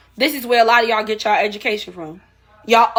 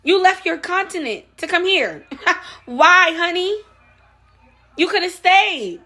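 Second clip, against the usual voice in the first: laughing mockery; 6 semitones higher than usual. Real, not acted. Laughing mock at immigrants.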